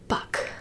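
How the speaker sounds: "buck" ending in a crisp k; k instead of ch. Shown as a demonstration. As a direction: end "buck" on a crisp hard k. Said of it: "It would then be".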